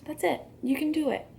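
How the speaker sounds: high-pitched mock encouragement; sarcastic. Real, not acted. Vlogger mock-encouraging a creator to apologize, sarcastic. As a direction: cheer them on sarcastically, voice up high. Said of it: "sorry for being sarcastic there".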